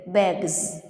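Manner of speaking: "begs" with final S voiced as Z; Z ending. Shown as a demonstration. Teacher gives example of voiced sounds, Z on "begs". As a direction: finish "begs" on a Z after G. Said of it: "pronounced like Z sound".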